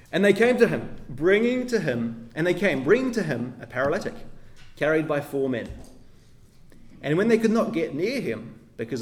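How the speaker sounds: measured, solemn reading of the passage; scripture reading. Acted. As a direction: read it out like Scripture before the sermon. Reads the Bible passage aloud.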